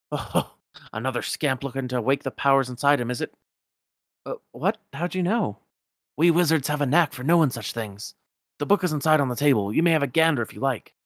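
lightly voiced knowing old wizard; a hint of Merlin the old wizard.

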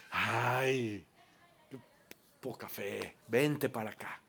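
a hint of a tender Jesus; suave, cariñoso, sin reproche. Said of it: "te dice". (Jesús dando la mano, con ternura suave)

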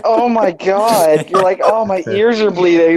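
put-upon worker recoiling from the noise; pained reaction. Retold or imitated.

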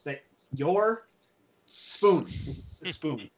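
quiet, halting mumble to oneself; mumbling while reading. Acted. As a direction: puzzle out the words under your breath. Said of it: "He's kinda mumbling".

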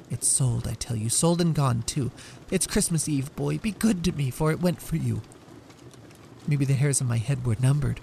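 sweet and earnest; serious sweetness. Acted. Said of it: "with sudden serious sweetness".

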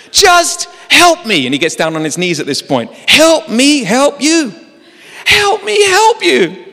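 very high, loud, slow begging; mock desperate plea on his knees; half-laughing, half-crying mock plea; hammed-up pleading. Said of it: "I'm gonna stop doing that now".

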